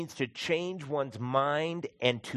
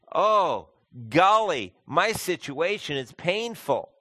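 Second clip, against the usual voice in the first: higher, louder whiny mock regret; mock sulky regret; 4 semitones higher, 6 dB louder, slower than usual. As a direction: ham up a sulky kid caught out. Mock voice of self-pity.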